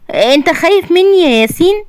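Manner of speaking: gently asking هي "خايف" with a mother's tenderness; tender mother. Acted. Mother hugging her son, tenderly asking if he fears her. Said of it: "الام بحنان".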